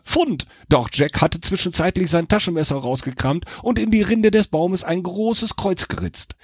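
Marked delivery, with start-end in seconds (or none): 0.0-0.5 high triumphant call from the treetop. A narrator's reading. Devil calling down from the tree, triumphant. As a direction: shout it up high like a find. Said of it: "Oben angekommen rief er".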